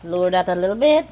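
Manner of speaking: quick loud call across the room. Real, not acted. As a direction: call it out fast to someone away. Calling to someone off camera.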